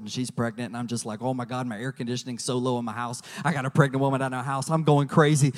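low rushing ramble ending in a shrieked plea; frazzled rambling. Retold or imitated. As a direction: pour it all out then wail for help.

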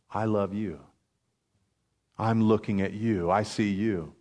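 soft, low, hushed assurance; the Lord. Acted. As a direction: speak it quietly and low, with long pauses. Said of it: "that the Lord says".

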